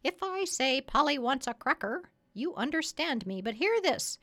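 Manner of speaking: high, boastful parrot voice; proud parrot. Acted.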